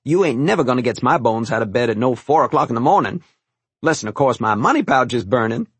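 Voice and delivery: lightly voiced kindly old cook; a hint of the old kitchen maid, amused; old cook Martha. Old cook thanking the boy for helping, lightly voiced.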